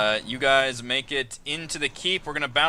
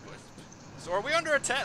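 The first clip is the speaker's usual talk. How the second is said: guard yelling back; faster than usual. Acted. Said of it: "He yells back".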